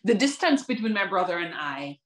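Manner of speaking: rhythmic poetry performance with rising peaks; spoken word poem. Acted. Poet telling the audience about her brother, in slam rhythm.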